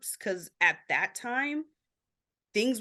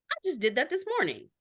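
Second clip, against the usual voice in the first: lightly voiced chorus of others, higher pitched; group members chiming in; 4 semitones higher than usual. Support group members sharing their experiences, lightly acted chiming in. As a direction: pipe up eagerly, each line higher.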